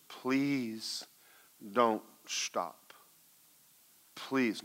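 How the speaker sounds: slow, spaced-out plea; pleading Holy Spirit. Retold or imitated. Holy Spirit urging her to keep praying, pleading. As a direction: beg gently, pausing between phrases. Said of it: "And the Holy Spirit said".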